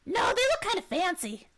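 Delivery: high, eager little kobold; high-pitched creature voice. Acted. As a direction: pipe up as an excitable kobold. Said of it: "when you do your kobold voice".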